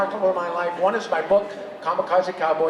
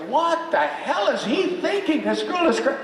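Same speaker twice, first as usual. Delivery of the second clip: incredulous; 8 semitones higher than usual. Retold or imitated. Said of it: "Or vice versa".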